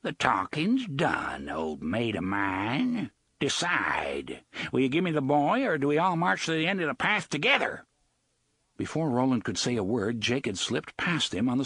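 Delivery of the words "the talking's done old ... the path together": serious confiding pirate. Acted. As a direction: lean in and make it a deal. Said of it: "grew serious and confiding".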